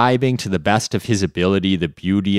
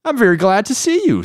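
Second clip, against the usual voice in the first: monkey voice; 5 dB louder, faster than usual. Acted. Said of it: "said the monkey".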